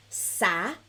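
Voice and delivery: Sacudir split into three slow syllables; slow teaching model of Sacudir; nice and slow. Shown as a demonstration. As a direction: say Sacudir one syllable at a time, long pauses between. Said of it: "say it nice and slow".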